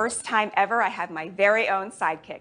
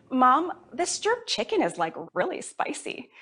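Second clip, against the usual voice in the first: mock whiny kid; 5 semitones higher than usual. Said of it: "I'd be like".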